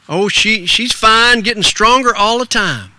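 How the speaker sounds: a hint of a folksy youngster; ragged little boy. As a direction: answer like a polite country lad. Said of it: "that ragged little boy".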